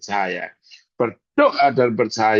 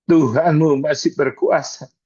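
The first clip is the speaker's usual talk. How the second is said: preacher lifts the line into a loud declaration; louder declaration; 3 semitones higher, 5 dB louder than usual. Shown as a demonstration. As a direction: proclaim "Tuhanmu masih berkuasa" louder, with force. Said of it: "preacher repeats phrase louder".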